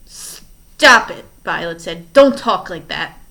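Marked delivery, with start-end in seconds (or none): 0.1-1.3 much louder, higher stop it; shout. Acted. Violet shouts at Stefano to stop, loud and higher. 2.1-3.2 much louder protest; shout. Acted. Violet yells at Stefano to stop talking, loud.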